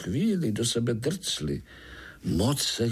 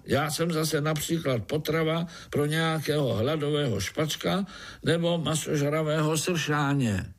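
a touch higher, explaining calmly; lightly voiced spider, patient; 6 semitones higher than usual. A narrator's reading. Pája explains to the fly groom, patiently. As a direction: reason with the fly.

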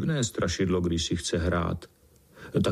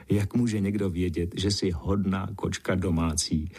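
plain reading voice

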